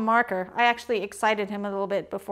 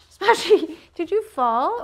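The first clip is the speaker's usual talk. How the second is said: louder, startled call of the name; surprised call; 6 semitones higher, 6 dB louder than usual. Real, not acted. Owner startled by her old dog getting up, calling loudly. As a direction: call "Splashy," out in sudden surprise.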